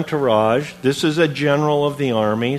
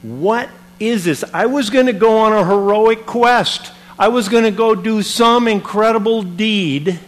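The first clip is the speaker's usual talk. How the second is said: indignant outburst; 5 semitones higher than usual. Retold or imitated. Naaman fuming at the prophet's snub, mock indignant. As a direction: huff about the lost heroic quest. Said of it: "He was angry".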